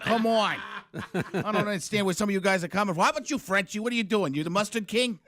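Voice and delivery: put-on needling Boston accent. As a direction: tease in comic Boston-speak. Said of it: "that's Boston".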